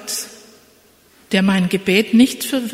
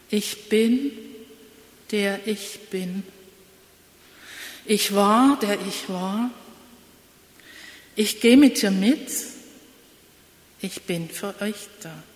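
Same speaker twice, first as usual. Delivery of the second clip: reading a song text. Shown as a demonstration. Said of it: "Ich lese vor".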